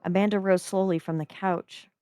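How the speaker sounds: calm, even storytelling read; story narration. A narrator's reading. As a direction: read the chapter like an audiobook. Reads story aloud.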